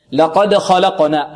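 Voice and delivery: slow لقد with a full, heavy ق and bounced د; heavy qaf, qalqalah. Shown as a demonstration. Teacher recites for the class, heavy qaf. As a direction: recite لقد خلقنا slowly, thick ق, echoing د. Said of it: "القاف مفخمة والدال مقلقلة".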